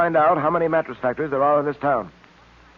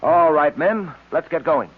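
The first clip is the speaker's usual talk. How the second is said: loud call to the men, slow on the second half; loud, firm order to move out; rallying call; 3 semitones higher, 5 dB louder, slower than usual. Acted. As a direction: get the squad moving. Tracy rallies the squad.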